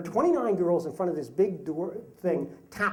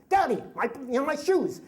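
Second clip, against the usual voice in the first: whiny daughter; 7 semitones higher than usual. Retold or imitated.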